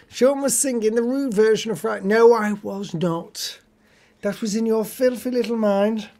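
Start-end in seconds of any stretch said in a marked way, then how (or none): 2.0-6.1 mock indignation. Denying the rude song to a teasing friend, mock outraged.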